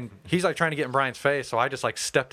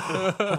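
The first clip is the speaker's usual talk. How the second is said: open-mouthed gasp; 7 semitones higher than usual. Retold or imitated. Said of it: "standing there with my mouth open".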